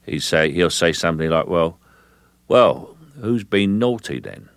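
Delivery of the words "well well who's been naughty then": a hint of drawn-out gangster menace; slow, understated threat; Cockney gangster. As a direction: ask it slowly, as a veiled Cockney threat. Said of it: "in trouble with a Cockney gangster".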